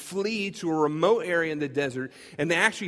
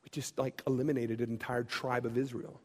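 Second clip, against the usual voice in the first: stunned realization; 4 semitones lower, 6 dB quieter, slower than usual. Retold or imitated. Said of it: "they kinda go".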